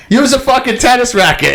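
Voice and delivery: imitating the fan losing it, pitch way up; heckling fan. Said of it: "what the fan was saying to him".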